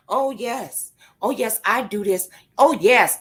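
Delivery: hint of a subservient yes-person; mock yes-person. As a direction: lightly imitate someone meekly agreeing. Mocks a compliant yes-person.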